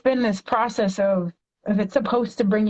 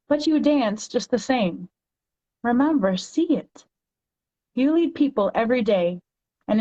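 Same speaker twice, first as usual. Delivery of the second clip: poem reading. Acted. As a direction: read it like a heartfelt poem to a child. Reads poem for moms.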